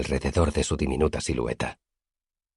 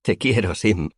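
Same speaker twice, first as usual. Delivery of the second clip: heartfelt; 6 semitones higher, slower than usual. A narrator's reading. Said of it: "dije de todo corazón".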